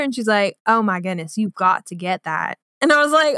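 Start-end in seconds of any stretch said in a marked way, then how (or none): 0.7-2.6 lightly voiced Southern lady, pitched low; old Southern woman. Admiring stranger in a clothing store, light Southern-woman voice. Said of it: "this old Southern woman".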